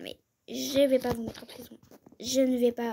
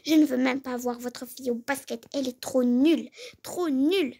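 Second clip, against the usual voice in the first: indignant scoff. Acted. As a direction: sneer at the other mother. Dispute entre les deux mères. (indignation forte et méprisante)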